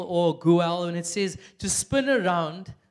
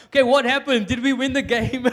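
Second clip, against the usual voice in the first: retold frantic question; 5 semitones higher, 7 dB louder than usual. Frantic after the stream dies.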